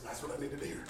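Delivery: low, very soft aside; hushed, low-pitched coach's answer; quiet retold reply. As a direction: say it privately, almost to yourself. Coach's private reply, first take.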